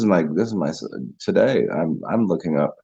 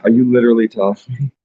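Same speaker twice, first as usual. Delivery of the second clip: loud, higher disbelief; incredulous; 5 semitones higher, 5 dB louder, faster than usual. Real, not acted. Host reading the song's real lyrics, loudly incredulous. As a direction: demand an answer, astonished.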